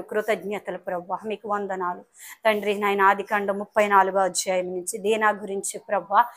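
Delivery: prayer. Acted. Closing prayer.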